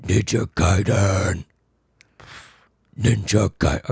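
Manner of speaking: slow, drawn-out metal growl; death-metal growl. Pretend. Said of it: "like a death metal?".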